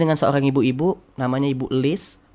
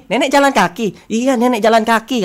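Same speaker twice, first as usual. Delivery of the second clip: high, loud disbelieving exchange; astonished retelling; 7 semitones higher, 6 dB louder than usual. Retold or imitated. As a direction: retell it raised and incredulous, stunned. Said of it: "saya langsung merinding ini".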